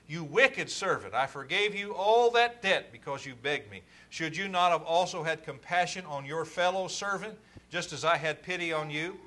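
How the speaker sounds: a touch of stern, loud reproach; angry master. Acted. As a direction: scold the servant with measured anger. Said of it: "And his master was angry".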